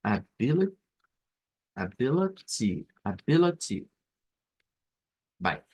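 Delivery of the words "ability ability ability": ability, stressed on the second syllable a-BI-li-ty; teacher showing the stressed syllable. Shown as a demonstration. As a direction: lean on the BI in ability. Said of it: "que es la sílaba tónica".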